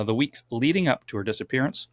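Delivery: speaking through a yawn. Real, not acted. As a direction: yawn while talking. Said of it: "sorry for the yawn".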